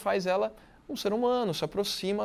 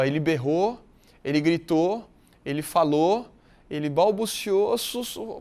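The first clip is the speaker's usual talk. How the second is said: louder at "berrou", softer by "sussurrou"; fading from loud to soft; 4 dB louder, slower than usual. Shown as a demonstration. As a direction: start "ele berrou" loud, then let each verb drop until "sussurrou" is nearly soft. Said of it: "Aí você tá descendo".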